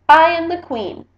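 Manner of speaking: Lily proclaims herself queen, loud and high; a bratty girl shouting she is queen; loud proud declaration. Acted. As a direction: announce it like a royal decree.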